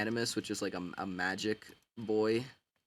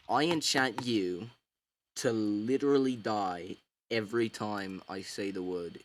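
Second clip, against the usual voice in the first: spellcaster voice; 4 dB louder than usual. Pretend. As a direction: cast the spell grandly, a bit hammed-up. Animus casting a spell on object.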